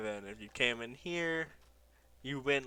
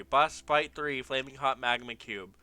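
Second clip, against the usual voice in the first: announcing heading; 6 dB louder than usual. Real, not acted.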